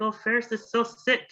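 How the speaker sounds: put-on high-pitched gossipy teen girl voice; high school girl. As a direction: squeal it up high like a chatty schoolgirl. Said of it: "she's like".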